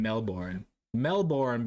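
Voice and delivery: Melbourne with a full second syllable, MEL-born; own pronunciation. Shown as a demonstration. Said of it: "That's how I say it".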